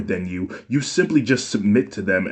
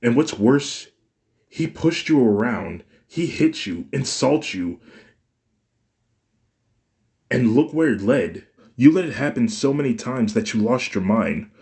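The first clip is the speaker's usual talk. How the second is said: high, loud and building to a shout; furious rant; 5 semitones higher, 5 dB louder than usual. A narrator's reading. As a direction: pile the charges on, getting louder. Son confronts mother angrily.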